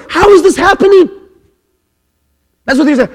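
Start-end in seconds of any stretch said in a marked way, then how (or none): 0.1-1.1 much higher, fast astonished question; amazed crowd. Retold or imitated. Crowd at Pentecost marvelling at the tongues, astonished. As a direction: blurt it out in amazement. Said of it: "They're going".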